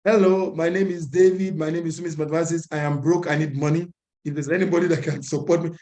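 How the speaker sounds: lightly acted marketplace pitch; market seller calling out. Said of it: "you are not quiet".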